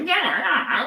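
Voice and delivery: high, eager yeah yeah yeah; mock an overexcited host; imitating Fallon. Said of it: "And he's like".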